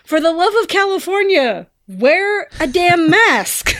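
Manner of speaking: high, loud outburst at the screen; mock-exasperated high yell; imitated yell. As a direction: yell it in exasperation like the friend, drawing out the end. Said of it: "my friend yells out".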